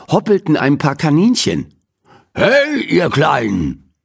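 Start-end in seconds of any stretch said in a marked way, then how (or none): 2.3-3.9 calling out. A narrator's reading. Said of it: "rief Mister Morrison aus dem Fenster".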